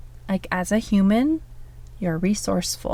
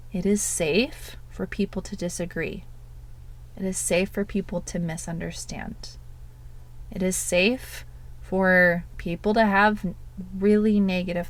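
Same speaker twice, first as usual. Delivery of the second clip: slow calm affirmation. Shown as a demonstration. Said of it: "And say this slowly".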